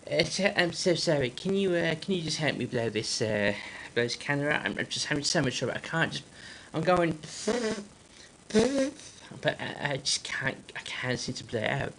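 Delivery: husband pleading in a put-on Amish accent; apologetic, accented Amish dad. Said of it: "I have to do the accent here".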